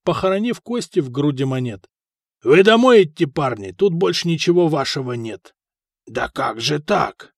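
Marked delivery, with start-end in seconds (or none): 2.4-5.5 victor's dismissal. Acted. Winner dismisses the losers. 6.1-7.3 slow, stunned question; dragged-out disbelief; stunned dismay. Acted. Foka horrified at losing everything.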